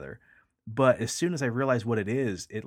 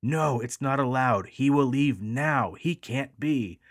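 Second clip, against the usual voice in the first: slow, firmer and louder mock anger; mild angry voice; 3 semitones higher, 5 dB louder, slower than usual. An angry voice banishing him, mildly angry and slow. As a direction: lay down the rule with a touch of anger. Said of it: "another angry voice say".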